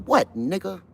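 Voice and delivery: high, loud barking guard; mock guard yell. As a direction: bellow like a prison guard. Guard snapping at white inmate.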